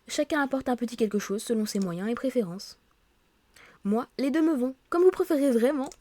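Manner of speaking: lively read-aloud of story dialogue; reading game dialogue aloud. Acted. Office colleagues agreeing on the park for welcome drinks, animated read-aloud. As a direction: read the characters' lines clearly, a little animated.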